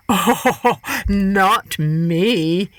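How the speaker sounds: slow, false-innocent coyote; sly Coyote voice. Acted. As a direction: play Coyote smooth and sly.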